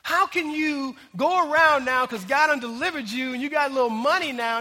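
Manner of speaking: acting out an incredulous scolding, rising as it builds; preacher voicing God's exasperated reproach; indignant rebuke. Preacher voices God reminding former slaves where they came from, indignant rebuke.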